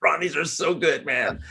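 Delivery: mock foodie delight from the vending machine; raving about waffles. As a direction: squeal it like the waffles are the best thing ever. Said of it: "I got".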